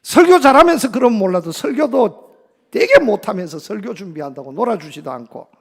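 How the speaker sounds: imitated huffy child, loud burst then dropping; sulky outburst. Young son slamming door on dad, huffy grumbling. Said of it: "문을 쾅 닫으면서".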